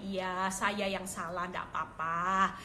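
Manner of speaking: soothing submissive apology, drawn out; meek, kind reply. Retold or imitated. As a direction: take the blame gently, slowly. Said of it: "saya tetap baik".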